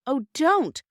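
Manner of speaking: a high, loud plea; children begging the station master not to call police; pleading. A narrator's reading. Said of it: "all the children pleaded at once".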